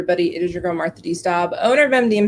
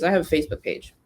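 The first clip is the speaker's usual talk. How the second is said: quoting a client; 3 semitones lower, 6 dB quieter, faster than usual. Retold or imitated. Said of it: "a lead of some sort that says".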